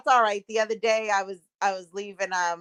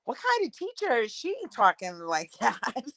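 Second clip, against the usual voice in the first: retold disbelief; 6 dB quieter than usual. Own puzzled reaction, retold.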